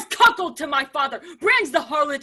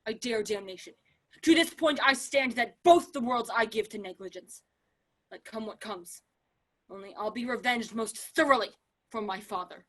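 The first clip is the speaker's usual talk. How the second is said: dark quiet vow; 3 semitones lower, 5 dB quieter than usual. Acted. Laertes vows revenge darkly.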